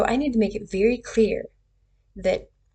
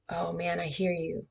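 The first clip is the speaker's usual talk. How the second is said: much softer, sympathetic listening; soft empathy; 4 semitones lower, 8 dB quieter than usual. Shown as a demonstration. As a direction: say it gently, just acknowledging. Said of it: "make sounds that help you".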